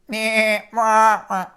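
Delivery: mock goat bleat, mwah. Shown as a demonstration. Storyteller bleating as Billy for the kids. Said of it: "That's the wrong sound".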